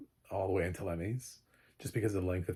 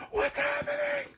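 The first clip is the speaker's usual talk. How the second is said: much higher, squeaky mock panic; panicked viewer. Tense viewer bewildered by the show, mock-panicked squeak. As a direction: play a frantic, lost viewer.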